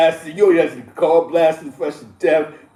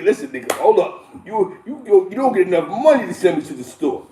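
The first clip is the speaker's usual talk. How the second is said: mild pushback; 3 semitones higher than usual. Retold or imitated. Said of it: "You guys remind the nigga".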